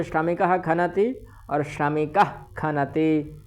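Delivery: श्रमिकः खनति first with a clear visarga, then the visarga as a throaty kh; श्रमिकः खनति as shramikah, then shramikakh khanati; two Sanskrit forms. Shown as a demonstration. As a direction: say श्रमिकः खनति twice, the second with the tongue drawn back. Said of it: "ये रूप बन जाएगा".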